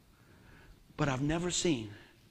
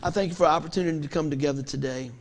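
heartfelt preacher's prayer; closing prayer; 3 semitones lower than usual. Acted. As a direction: lead the church in prayer.

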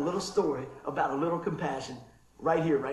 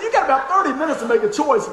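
louder, laughing retold punchline; 6 semitones higher, 9 dB louder than usual. Retelling the clerk's joke to the crowd, laughing loudly. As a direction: repeat the line while cracking up.

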